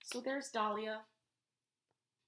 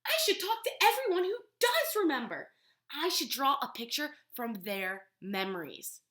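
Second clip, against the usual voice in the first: excited idea; 4 semitones higher, 5 dB louder than usual. Acted. Lola finds a plan.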